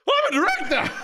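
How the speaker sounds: very high mock-triumphant yell; all-out hammed-up final attempt; full passion. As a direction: shout it like a proud declaration. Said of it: "With passion".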